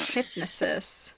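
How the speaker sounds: Hypnosis slow, "HIP-nuh-sis"; her version. Shown as a demonstration. Slowly repeating her odd version for her friend. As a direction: Hypnosis drawn out with a weak middle. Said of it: "we say hypnosis".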